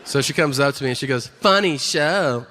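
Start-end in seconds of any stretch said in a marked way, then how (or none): 1.3-2.4 slow, drawn-out imitation of a woman; put-on slow woman's voice; impression of laughing woman. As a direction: stretch it out like that odd fan.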